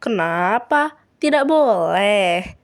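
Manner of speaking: slow, drawn-out taunt; playful mock-innocent challenge; teasing. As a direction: needle her playfully, dragging it out. Kira keeps teasing Laura.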